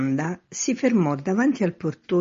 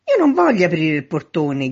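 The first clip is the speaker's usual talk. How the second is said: loud, raised voice; shouted protest; 3 semitones higher, 7 dB louder than usual. A narrator's reading. Man at third-floor window to man in street, shouting. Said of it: "gridò il signor affacciato al terzo piano".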